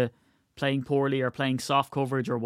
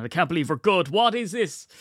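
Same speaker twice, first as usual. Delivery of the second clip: imitating an outraged fan, pitch climbing high; hammed-up fan disbelief, rising sharply; mock exasperation; 5 semitones higher than usual. Mimicking raging fans, building outrage.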